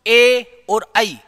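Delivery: teacher demonstrating diphthongs; drawn-out vowels. Shown as a demonstration. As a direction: stretch ए and आई out so the glide is heard. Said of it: "इनका उच्चारण स्थान दो दो होंगे".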